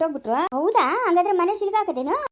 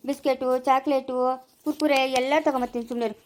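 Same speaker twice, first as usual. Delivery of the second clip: coaxing; 2 semitones lower than usual. Acted. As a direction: promise treats gently to stop the tears. Coaxing a crying child with treats.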